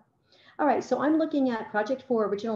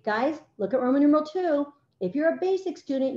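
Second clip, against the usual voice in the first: teacher addressing class; 5 semitones higher than usual. Acted. Acts out instructing her students.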